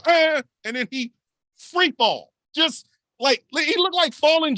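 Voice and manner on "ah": imitated cry. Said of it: "you can see him go".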